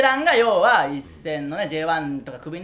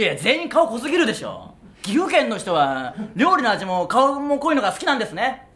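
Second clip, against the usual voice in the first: punchy stage delivery; stand-up routine delivery; 5 semitones higher than usual. Shown as a demonstration. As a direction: perform it like a comedy bit. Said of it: "ちょっと一回やってみましょう".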